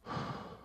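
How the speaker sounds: long, worn-out exhale; weary sigh. Acted. Father worn out in the evening heat, weary sigh. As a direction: let out a tired puff of air.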